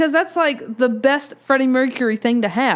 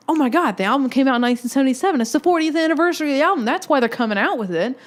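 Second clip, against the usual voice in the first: excited realization; 6 semitones higher, faster than usual. Retold or imitated. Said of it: "I was like".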